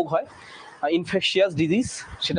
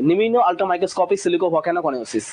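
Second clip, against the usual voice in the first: slightly faster repeat; much slower than usual. Shown as a demonstration. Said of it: "ঠিক আছে".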